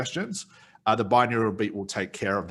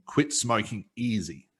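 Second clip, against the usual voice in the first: hypnotic suggestion; slower than usual. Shown as a demonstration. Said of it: "Let's say I gave the suggestion of".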